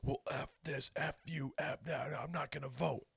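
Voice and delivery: high-pitched mock fit of temper; imitated angry outburst. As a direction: act out an irate man storming off. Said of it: "so angry. He's like".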